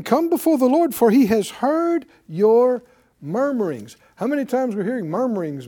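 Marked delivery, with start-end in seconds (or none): 0.0-4.0 louder preaching of Moses' words, peaking high; full-force preaching. Acted. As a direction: preach it out to the congregation.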